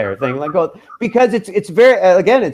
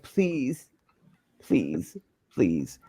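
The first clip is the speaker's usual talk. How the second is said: tearful pleading; 4 semitones lower, 11 dB quieter, much slower than usual. Retold or imitated. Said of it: "I started bawling".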